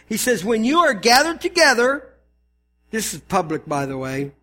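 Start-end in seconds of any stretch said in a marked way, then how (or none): 0.4-2.1 higher, emphatic reading; Paul coming down hard. Acted. Pastor voices Paul calling them out, emphatic. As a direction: press each word as a public rebuke. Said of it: "now he's really coming down".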